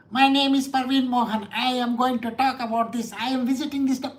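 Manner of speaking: a light mock American accent, introducing himself; imitating a YouTuber's American accent, only lightly put on; Parveen Mohan's American accent. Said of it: "He talks with that American accent".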